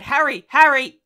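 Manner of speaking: very loud, high frantic call from a window; shouting a name. A narrator's reading. Mother shouts out the window at a ghostly boy, very loud. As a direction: yell like a mad woman into the garden.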